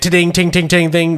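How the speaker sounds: quick ringing tings of metal; imitated metal clinking. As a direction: mimic scrap pinging onto a magnet. Imitating metal hitting the magnet.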